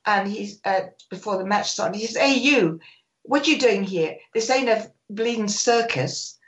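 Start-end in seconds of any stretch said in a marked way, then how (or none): 2.2-6.4 lightly imitated stern challenge; Bill Nicholson. Manager challenging photographer before the match, lightly acted reprimand. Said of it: "Bill Nicholson saw me walk through".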